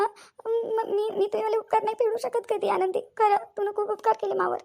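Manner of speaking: a touch of crying while giving thanks; tearful gratitude. Acted. Orphaned sister-in-law thanks Anandi for a maternal home, mildly tearful. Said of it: "ताई, तुम्ही अशा रडू नका".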